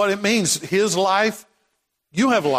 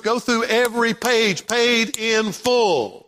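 rhythmic emphatic preaching; 2 semitones higher than usual. Real, not acted. Preaching, building list.

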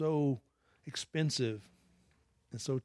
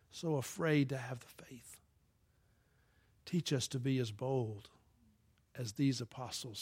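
closing prayer. Acted. Pastor prays for the church to be bold. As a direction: pray over the congregation gently.

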